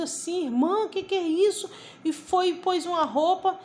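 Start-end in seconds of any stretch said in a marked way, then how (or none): 0.4-1.7 high-pitched astonished question; acted-out wonder, pitched up; retold amazement. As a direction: imitate a pastor marvelling aloud. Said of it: "o pastor ficou assim maravilhado".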